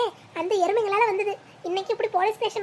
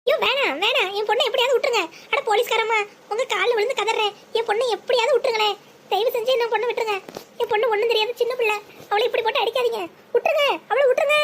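அழுது கெஞ்சுவது; 2 semitones higher than usual. Acted. Mother begs police for daughter.

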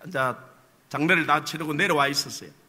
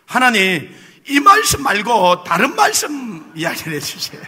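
pleading prayer with a laugh; laughing mock prayer; 2 semitones higher, 4 dB louder than usual. Pastor retells his evasive prayer, chuckling to the congregation. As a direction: beg God sheepishly, laughing. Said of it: "이렇게 또 기도했어요".

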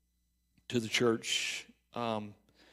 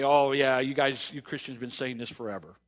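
dismissive scoffing retort, louder at the start; sneering unbeliever jab; mock scoffer; 6 dB louder than usual. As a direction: toss it off like a mocking skeptic. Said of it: "they'll scoff and say".

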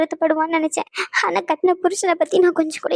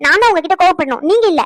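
louder, hitting back; angry retort; 6 dB louder than usual. Acted. Wife to husband, hurt and loud. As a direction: throw it back at him.

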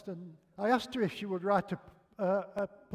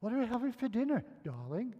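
higher, quick mild call; raised-pitch question, dropping on the last word; retold shout; 5 semitones higher, faster than usual. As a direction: call through from the doorway. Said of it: "and I shouted".

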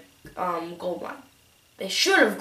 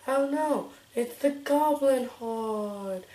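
slow alarmed character voice; lightly voiced worried advisor; 4 semitones higher, much slower than usual. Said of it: "that's my voice for her".

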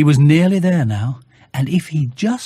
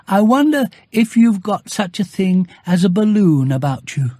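higher cheerful bear voice; Pooh's greeting; 6 semitones higher than usual. Acted. Bear greets Christopher Robin at his door, higher and cheerful. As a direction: greet your friend brightly. Pooh asks boy.

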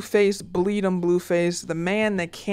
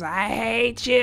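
drawn-out mock yell through a wall; imitated neighbor yelling; 3 semitones higher, slower than usual. Imitating the lesbian neighbors fighting at three A M, mock yell. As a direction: stretch each word like a quarrelling neighbor.

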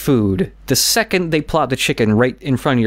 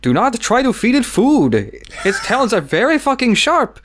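higher, mock-grand announcer; a higher, hammed-up warning; narrator's warning; 11 semitones higher than usual. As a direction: boom it out like a herald. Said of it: "the narrator dude was like".

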